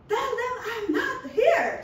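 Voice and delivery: high, loud, slow yelled order, half laughing; boss yelling. Retold or imitated. Boss yelling at his secretary to dodge a call, loud and slow. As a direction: bark it like a bossy hotel manager, laughing through it. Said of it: "sisigaw yun".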